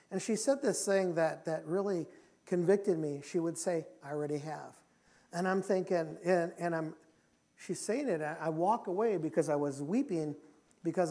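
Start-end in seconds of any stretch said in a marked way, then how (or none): 4.0-4.7 soft, low quoted reply; gentle forgiveness. Retold or imitated. Wife answering his plea for forgiveness, gentle and low. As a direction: quietly grant forgiveness. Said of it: "it was the gentleness of God".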